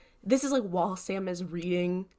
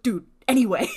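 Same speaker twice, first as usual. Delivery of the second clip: mock Sam brush-off; 8 dB louder, faster than usual. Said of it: "And Sam is like".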